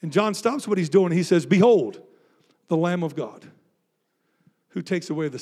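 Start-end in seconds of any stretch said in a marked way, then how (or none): 1.4-5.4 loud, ringing proclamation; proclaiming. Retold or imitated. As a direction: announce it to the crowd. Preacher proclaiming John's words.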